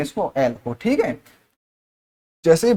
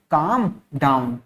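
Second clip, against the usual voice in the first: slow teaching demo; 3 semitones lower, slower than usual. Shown as a demonstration. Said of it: "शांत हो जाओ का English word क्या होता है".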